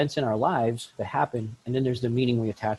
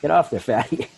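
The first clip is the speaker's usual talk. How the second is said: louder, higher mocking scale voice; talking bathroom scale; 5 semitones higher, 7 dB louder than usual. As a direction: lightly voice a rude scale insulting you. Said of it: "thing goes".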